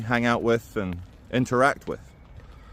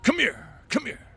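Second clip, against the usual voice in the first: mocking voice; 14 semitones higher, 4 dB quieter than usual. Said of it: "he did the joke".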